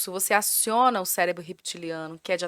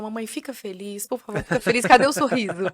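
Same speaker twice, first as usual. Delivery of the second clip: a lightly voiced child coaxing, louder toward the end; pleading little boy; 5 dB louder than usual. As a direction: plead like a four-year-old wanting mom to smile. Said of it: "Ele fala desse jeito".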